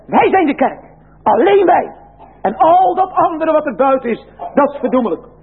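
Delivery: high, haughty voice claiming to be the only church; boasting sectarians. Acted. Preacher mimicking the other group's arrogant claim, high and haughty. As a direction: raise the voice in scornful exclusive pride.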